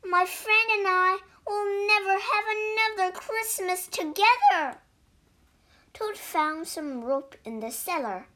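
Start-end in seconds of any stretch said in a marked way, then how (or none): 0.0-4.8 high, louder half-sung lament; sad wail. A narrator's reading. Toad mourning his lost friend, a sung high wail. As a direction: wail it like a sad little song.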